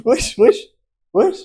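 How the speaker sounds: high excited shout. Real, not acted. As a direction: hype it up loudly. Celebrating the eruption.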